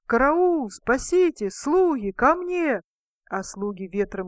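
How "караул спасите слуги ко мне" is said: high, loud panicked cries; yelling for help. A narrator's reading. King on the roof calling servants, panicked yell. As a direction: scream for help clinging to the roof. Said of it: "орёт во всю глотку".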